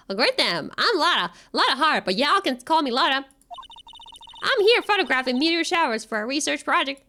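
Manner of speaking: put-on friendly American Southern accent. Country gal introducing herself in Southern accent. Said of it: "accent is completely terrible for this character".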